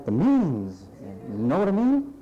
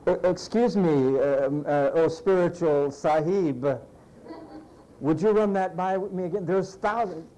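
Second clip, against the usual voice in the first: nervous servant voice. Acted. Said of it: "servant voiced doubting".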